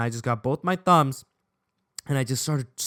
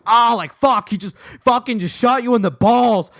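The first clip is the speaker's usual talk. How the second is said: higher, louder mock outrage; alarmed inner voice; 7 semitones higher, 5 dB louder than usual. Soccer player mind reacting to the tap, mock alarm. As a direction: play up the shock in raised voice. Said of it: "my soccer player mind just kinda told me".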